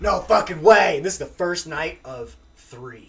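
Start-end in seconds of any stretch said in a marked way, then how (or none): 0.0-1.0 loud refusal. Retold or imitated. Incredulous retort in story.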